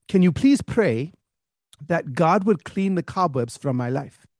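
lightly voiced old lady, drawn out; gently imploring, slowly; old churchgoer pleading. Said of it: "one very old lady".

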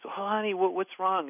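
lightly imitating a worried mom, pitched high; high, concerned questioning, retold; concerned mother. Voices concerned mother greeting crying child.

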